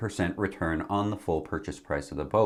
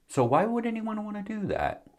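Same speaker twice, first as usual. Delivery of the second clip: incredulous; 14 semitones higher than usual. Acted. Rhetorical question, pitch jumps.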